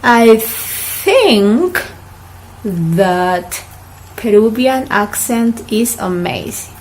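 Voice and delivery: "think" with a soft TH in a slow model sentence. Shown as a demonstration. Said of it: "repeat, please".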